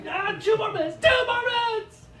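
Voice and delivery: high, shouted bargaining whine; whiny child. Retold or imitated. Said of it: "she's like".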